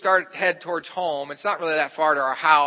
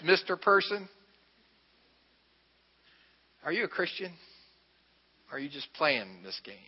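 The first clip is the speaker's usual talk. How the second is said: Holy Spirit's reproof; 6 dB quieter than usual. Retold or imitated. Holy Spirit checking an angry pastor, hushed reproof. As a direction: soften right down and let each question land. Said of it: "the Holy Spirit says".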